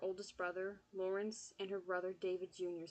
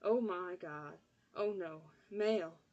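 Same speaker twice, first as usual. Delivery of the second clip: panicked; 4 dB louder, slower than usual. Acted. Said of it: "She sounded panicked".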